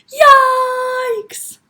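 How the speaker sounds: high, loud drawn-out cry of alarm; shocked yelp. A narrator's reading. Father seeing a cart full of candy, shocked. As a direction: yelp it in horror.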